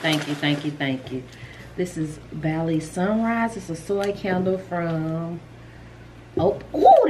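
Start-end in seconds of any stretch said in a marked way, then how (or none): 0.0-1.2 much softer and lower, near tears; quiet, choked thank-yous; teary thanks. Real, not acted. Vlogger overwhelmed by a viewer's gift, softly near tears. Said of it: "I'm finna cry". 6.4-7.1 much higher, pleased gasp; a bright rising ooh of pleasure; delighted ooh. Real, not acted. Vlogger smelling a gifted candle, high delighted ooh.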